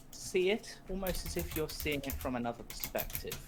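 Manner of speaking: game master setting the scene, hushed; scene-setting narration. Acted. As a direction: draw the player into the vision. GM describes the vision scene.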